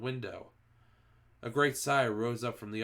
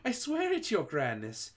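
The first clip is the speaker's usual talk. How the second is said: much higher frightened swearing; fearful oath; 8 semitones higher than usual. A narrator's reading. Front-row witch swearing innocence, much higher frightened plea. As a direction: swear desperately. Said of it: "began to shake with fear".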